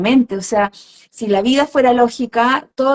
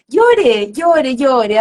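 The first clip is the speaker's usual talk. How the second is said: encouraging; 3 semitones higher, 4 dB louder, much slower than usual. Shown as a demonstration. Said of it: "el llorar alivia".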